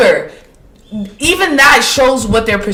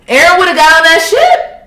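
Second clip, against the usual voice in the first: laughing repeat; 5 semitones higher, 3 dB louder than usual. Real, not acted.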